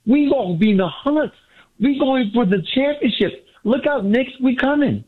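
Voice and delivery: caller hyping up the team to the host, excited; high-pitched, fired-up fan boast. Real, not acted. Excited fan warning rival teams, excited. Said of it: "You sound so excited".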